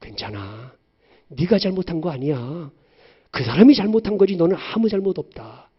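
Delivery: calm a sobbing daughter; mother consoling her daughter tenderly; comforting mother. Retold or imitated. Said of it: "그렇게 말하면 안 돼요".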